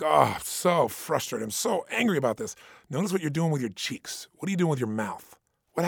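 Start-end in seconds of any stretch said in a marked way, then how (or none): 0.0-2.5 slow, fed-up grumble of frustration; mock frustrated. Imitating someone frustrated, slow and fed up. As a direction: sulk it out like you're stuck. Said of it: "next time you start to feel like".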